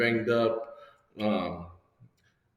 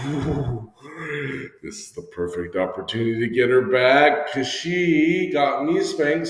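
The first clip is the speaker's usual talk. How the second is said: scheming glee; 3 semitones higher, 4 dB louder than usual. Retold or imitated. Scheming revenge.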